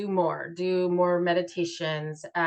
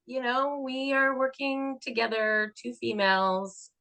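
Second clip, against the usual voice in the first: mock documentary host; 3 semitones higher than usual. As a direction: present it like a docuseries narrator. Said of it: "I'm like".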